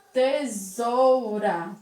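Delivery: "tesoura" slow, with the S voiced as a Z; teacher draws out "tesoura" to show the Z sound. Shown as a demonstration. Teacher slowly sounding the Z in "tesoura". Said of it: "ele vai ter o som de Z".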